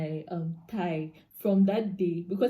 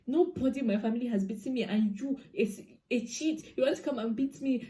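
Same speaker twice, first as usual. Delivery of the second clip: higher, indignant challenge; retold defiant retort; 4 semitones higher than usual. Girlfriend answering a threat of a beating, retold indignation. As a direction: replay standing up to a threat, mildly heated.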